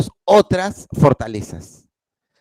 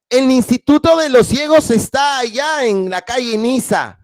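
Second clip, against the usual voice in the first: higher, projected schoolboy announcement; said aloud; 8 semitones higher than usual. Acted. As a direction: call it out to the class. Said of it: "dijo en voz alta".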